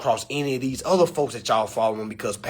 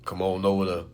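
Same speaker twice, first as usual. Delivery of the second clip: much softer, lowered voice; hushed; 8 semitones lower, 7 dB quieter than usual. Real, not acted. Inviting followers to Instagram in a hushed voice. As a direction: drop to a near whisper.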